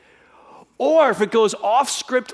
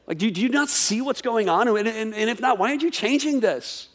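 a lightly voiced, exasperated plea to God; pleading prophet; 3 semitones higher than usual. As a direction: question God in a mild, rising frustration. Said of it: "He's essentially going".

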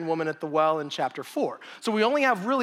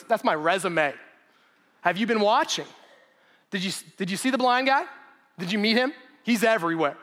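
excited Jesus; 2 semitones higher than usual. Retold or imitated. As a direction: show off the miracles with mild excitement. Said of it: "He's excited".

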